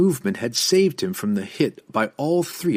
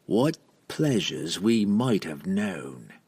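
sultry; 3 semitones lower, slower than usual. Acted. Tender taunt over dying foe.

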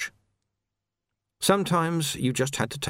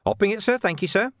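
much higher, oily servility; fawning crook; 10 semitones higher than usual. Acted. Carcer thanking the jailer, fawning and oily. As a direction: grovel with false thanks.

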